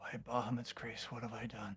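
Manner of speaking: whispering under breath. A character, as he disappears from sight, whispering under his breath. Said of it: "Cam whispers under his voice".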